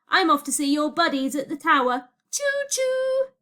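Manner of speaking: high, mocking singsong farewell; gleeful villain taunt. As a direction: taunt them, ending on a high train hoot.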